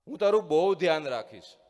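loud fond call, stress on તારું. A narrator's reading. Father calling into the ravine to show his son, loud call. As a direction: call out a promise across the gorge.

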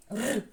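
a short trilled "Р" with no vowel; isolated consonant. Shown as a demonstration. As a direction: roll "Р" alone. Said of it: "Перший склад".

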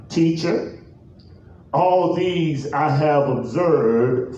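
measured, deliberate pulpit reading; solemn, stretched-out Bible reading; scripture reading. Real, not acted. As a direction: read the verse out with long pauses between phrases. Reads scripture aloud.

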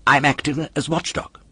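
a hint of an indignant wooden boy; puppet voice. A narrator's reading. Puppet corrects the polecat, a touch indignant.

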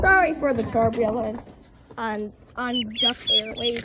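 slow playful captain voice; airline pilot. Pretend. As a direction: announce it to the passengers. Pilot announcement, Duck Airways.

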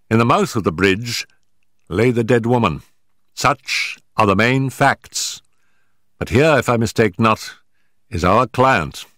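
a lightly voiced Holmes reasoning the case through. Holmes explaining the evidence to Watson, measured detective voice.

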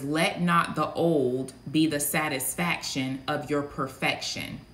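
slow, weighty voice of the Lord, lightly done. Acted. Prophet delivering the word she heard from the Lord, slow and weighty. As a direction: lay it down slow like a divine decree. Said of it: "I heard the Lord speak very loud and clearly".

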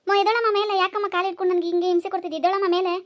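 loud cry of pain; pained outcry. Acted. Wife crying out as someone stands on her chest, loud and pained. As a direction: yell to get the weight off your chest.

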